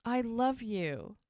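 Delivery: slow, drawn-out declaration of love; acted sincerity, unhurried; earnest plea. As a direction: voice a boy pleading sincerely. Ex pleads for another chance.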